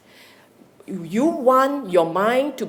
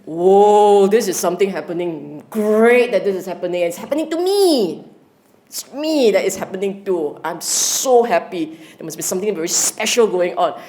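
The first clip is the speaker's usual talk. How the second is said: excited inner voice. Retold or imitated. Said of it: "you shouldn't be feeling".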